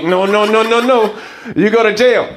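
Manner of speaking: mock refusal. Man refuses the bribe.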